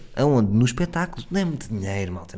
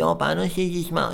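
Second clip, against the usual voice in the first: put-on cutesy girl voice; 5 semitones higher than usual. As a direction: plead sweetly like a cutesy girl. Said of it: "uma pessoa que diz". (voz de fofinha, aguda e lenta)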